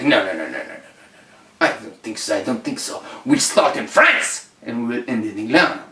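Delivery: mock French accent, dismissive refusal; French cat puffing between words; smoking French cat. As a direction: wave it off in a smoker's French accent. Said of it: "the French cat definitely smoked".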